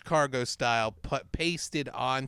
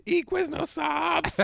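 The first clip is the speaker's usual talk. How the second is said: mock ad line; 13 semitones higher, slower than usual.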